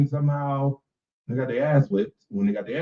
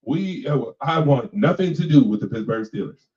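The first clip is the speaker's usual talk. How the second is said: imitating the player; 3 semitones lower than usual. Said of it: "That's how he sounded".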